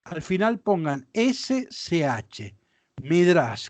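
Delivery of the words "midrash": midrash said with stress on the A, mi-DRASH. Shown as a demonstration. Teacher telling students how to say midrash, clearly stressed. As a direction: spell it out clearly as midrash, accent on the final a. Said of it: "con acento en la A".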